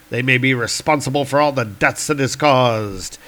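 lightly acted heroic inner monologue; brooding thunder god. Thor weighing his foe's motives, earnest declaiming. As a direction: reason it out in comic-book hero style. Voices Thor's thoughts.

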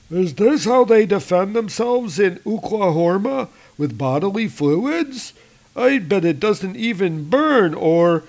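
a troll sneering at the humans; mocking troll. Troll mocks the spit.

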